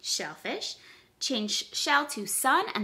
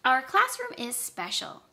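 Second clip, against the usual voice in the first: model sentence; 3 semitones higher than usual. Shown as a demonstration. Teacher gives pupils a sentence to repeat, clear model reading. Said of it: "repeat the sentence just like I said it".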